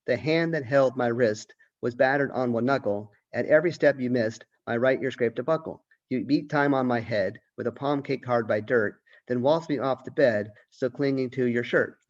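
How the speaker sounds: measured recitation of the poem; poem reading. Acted. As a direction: read each line with an even, recited rhythm. Teacher reads poem aloud.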